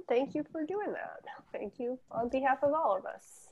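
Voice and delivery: soft unvoiced thank you; whispered thanks. Real, not acted. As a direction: breathe the thanks softly. Quiet thanks to Jan.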